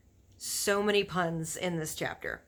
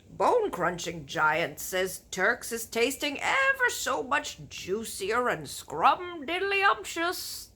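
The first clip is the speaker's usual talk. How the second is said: loud, slow, rumbling giant; big friendly giant warning about cannibal giants; BFG giant voice; 5 semitones higher, 3 dB louder, slower than usual. Acted. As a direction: boom out the giant's grim warning. Giant's voice in story.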